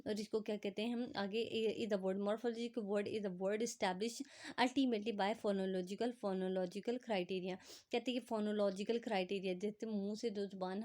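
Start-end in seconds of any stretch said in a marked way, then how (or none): 1.9-7.6 reads the English definition word by word, very slowly; slow dictation reading. Acted. Teacher reading the textbook definition to students, slow dictation. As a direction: spell it out slowly for students to copy.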